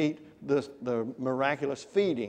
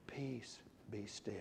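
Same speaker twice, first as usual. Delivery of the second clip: hushed and gentle, much softer; 5 semitones lower, 16 dB quieter, slower than usual. Shown as a demonstration. Preacher demonstrating piano, the soft marking. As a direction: say it softly, like calming a storm. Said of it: "Soft and very soft".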